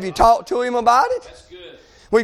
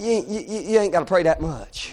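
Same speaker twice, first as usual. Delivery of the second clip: low, hushed mock disapproval; hushing crowd; 4 semitones lower, 5 dB quieter than usual. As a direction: quietly imitate an embarrassed onlooker. Crowd hushing the two men.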